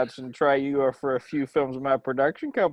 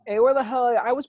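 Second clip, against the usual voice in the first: higher, loud shout into darkness; calling out; 9 semitones higher, 4 dB louder, faster than usual. Acted. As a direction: yell it out into the yard. Calling into the dark.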